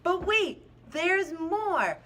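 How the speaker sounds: hyped TV salesman, high and loud; infomercial voice. Acted. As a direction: shout it like a late-night TV pitchman. Mock infomercial sales pitch.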